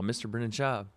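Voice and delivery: mock-formal greeting, name announced; overly proper, like a butler calling a guest; stiff formal address. Fan greets podcaster in a stiffly formal voice. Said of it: "I don't even talk like that".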